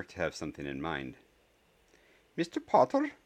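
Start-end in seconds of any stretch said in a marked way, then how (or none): 2.3-3.1 high, loud sharp query; slightly annoyed. A narrator's reading. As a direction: snap the name, losing patience. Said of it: "starting to look slightly annoyed".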